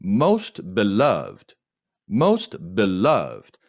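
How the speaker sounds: most with lips pushed forward and a rising glide; rounded most. Shown as a demonstration. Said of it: "쭉 내밀고 올려주세요".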